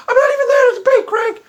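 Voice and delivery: high squeaky mock-girl voice; Stephanie voice. Stephanie answers her coach in a high squeaky voice. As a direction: chirp it back like an eager pupil. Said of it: "my Stephanie imitation".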